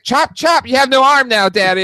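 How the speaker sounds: put-on gleeful toddler chopping; little boy playing. Toddler telling Daddy he has no arm, high loud kid voice. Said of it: "He's like".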